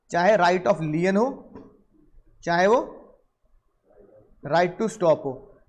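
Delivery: drawn out word by word; very slow. Shown as a demonstration. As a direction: dictate each right slowly. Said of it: "teacher spells out two rights". (हर शब्द को बहुत धीरे खींचकर बोलना)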